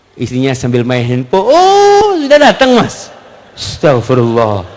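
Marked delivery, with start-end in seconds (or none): 1.5-3.1 high, offhand wife voice brushing him off; a dismissive wife barely greeting her husband; lazy wife greeting. Acted. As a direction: toss it off without looking up from the phone. Wife on phone answers lazily.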